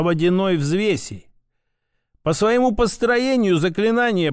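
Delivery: a hint of an old mentor; lightly voiced grandfather, instructive. Grandfather teaches grandson a water spell, lightly voiced instruction. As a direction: explain patiently as a grandfather, lightly in character.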